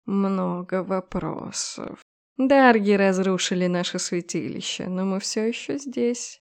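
slow, menacing snake goddess voice; slow serpent goddess. Acted. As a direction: coil the words slowly, cold and hungry. Serpent goddess demands blood.

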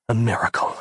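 ordinary delivery, nothing marked

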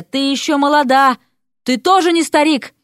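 high-pitched indignant bickering; quarrelling retort. A narrator's reading. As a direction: throw it straight back.

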